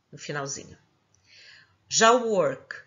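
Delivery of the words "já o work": ordinary talk, nothing marked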